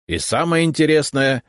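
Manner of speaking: carried away by the thrill of the unknown; enthusiastic. Acted. Left head telling the visitor about surprises, enthusiastic. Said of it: "с энтузиазмом продолжила левая голова".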